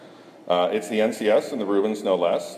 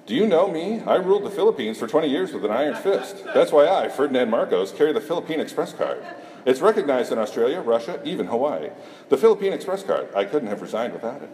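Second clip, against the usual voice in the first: lightly voiced commercial pitch, a bit higher; ad parody; 4 semitones higher than usual. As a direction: sell it like a mock TV ad. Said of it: "That's an old commercial".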